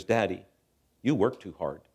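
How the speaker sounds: lightly voiced small boy, plainly spoken; three-year-old son. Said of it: "my little three-year-old Grant comes in".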